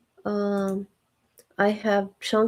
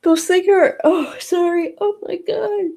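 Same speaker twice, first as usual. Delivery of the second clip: sudden, much higher and louder burst; startled exclaim; 10 semitones higher, 5 dB louder than usual. Real, not acted. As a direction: catch yourself mid-sentence, startled. Cuts herself off, embarrassed.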